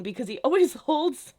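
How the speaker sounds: half laughing, half outraged about the hidden titles; exasperated laughing rant. Real, not acted. Fan ranting to viewers about the book titles, exasperated and laughing. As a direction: pitch jumps way up, laughing through the exasperation.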